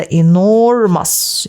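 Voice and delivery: "enormous" stretched out slowly; drawn-out emphasis. Shown as a demonstration. Teacher showing students an extreme adjective, drawn-out emphasis. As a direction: lean long and slow on "enormous".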